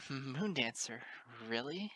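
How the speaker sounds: disbelieving laugh through the name; bitter chuckle. Acted. Lyra to Moon Dancer, bitter chuckle. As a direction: scoff it out with a bitter little laugh. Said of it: "I gave a bitter chuckle".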